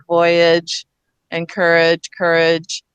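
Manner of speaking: voyage, encourage, courage ending in a light "idge"; low-pitched examples, courage ending as "idge"; reduced age endings. Shown as a demonstration. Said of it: "we often say edge instead of age".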